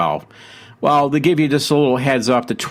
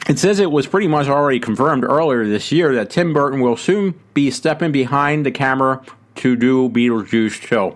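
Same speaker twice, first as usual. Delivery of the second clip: talking around ice; words muffled by a mouthful of ice; 3 semitones higher than usual. Real, not acted. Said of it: "I got ice in my mouth".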